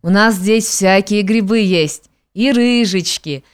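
put-on slow gummy old-woman mumble; toothless mumbling. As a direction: mumble temptingly through bare gums. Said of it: "соблазнительно прошамкала Афимьюшка".

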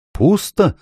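high-pitched, irritable echo; irritated query. A narrator's reading. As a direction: query it like a testy deaf dwarf. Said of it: "раздражённо переспросил гном". (раздражённый переспрос гнома)

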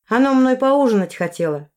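mock-innocent aside; innocent remark. A narrator's reading. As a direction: lift the voice, all innocence. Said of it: "невинно заметила я".

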